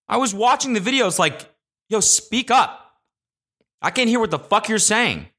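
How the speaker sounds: high, exasperated complaint. Acted. Acts out yelling at the quiet video.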